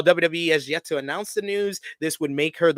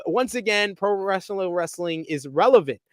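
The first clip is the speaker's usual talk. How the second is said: Rock promo impression; 6 semitones higher than usual. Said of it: "He said".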